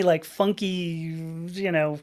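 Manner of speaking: usual speaking voice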